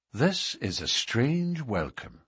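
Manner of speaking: slow, measured answer with some dignity; dignified. Acted. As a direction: stand on your dignity, unhurried. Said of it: "McMurdo answered with some dignity".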